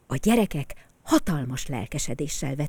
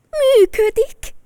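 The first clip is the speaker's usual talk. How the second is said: much higher, louder joyful cry, slowed; happy shout; 11 dB louder, slower than usual. Acted. A boy whose toy car works again, shouting for joy. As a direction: burst out with delight. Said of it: "kiáltotta boldogan".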